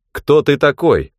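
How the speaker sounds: booming rider voice. A narrator's reading. Rider demands again.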